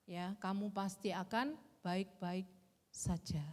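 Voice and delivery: slow, measured words of comfort; God's reassurance. Retold or imitated. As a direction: reassure slowly, as God speaking. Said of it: "Tapi Tuhan tetap berkata". (menenangkan dengan pelan, seperti suara Tuhan)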